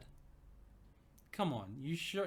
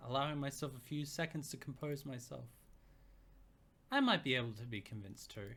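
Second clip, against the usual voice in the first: narrating a flirty romance scene; story narration. A narrator's reading. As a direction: read it teasing and close. Reads story narration aloud.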